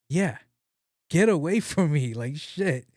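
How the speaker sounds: half-laughing get away; laughing retort. Retold or imitated. Telling the gym story, laughing as he shoos her off. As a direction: laugh through the brush-off. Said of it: "And I'm like".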